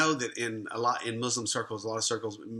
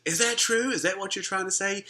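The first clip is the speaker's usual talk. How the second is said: a pitched-up son, hopeful and surprised; son asking, much higher; 8 semitones higher than usual. Retold or imitated. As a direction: lift the voice high like the astonished son. Son asks father, moved.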